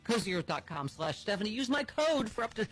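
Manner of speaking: upbeat sponsor read. Acted. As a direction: sell the sheets warmly to listeners. Host reads sponsor ad.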